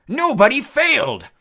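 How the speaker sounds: high, loud, slow gloating roar; gleeful cyclops yell. A narrator's reading. Cyclops gloating over the heroes' failure. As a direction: drag out the taunt like a giant. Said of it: "he yelled gleefully".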